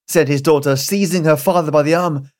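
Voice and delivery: ordinary delivery, nothing marked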